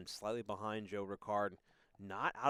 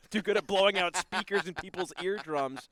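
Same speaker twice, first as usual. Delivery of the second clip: chuckling, raised and louder; laughing; 7 semitones higher, 7 dB louder than usual. Real, not acted. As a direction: joke through a laugh. Laughing at his own loudness.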